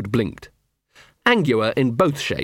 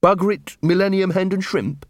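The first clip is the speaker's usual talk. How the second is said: imitating muttering old man; 7 semitones higher than usual. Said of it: "some old bloke who kept muttering".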